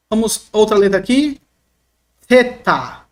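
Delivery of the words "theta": Theta with a blown, dental TH; tongue between teeth. Shown as a demonstration. Teacher introducing the Greek letter, aspirated TH. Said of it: "é a língua entre os dentes".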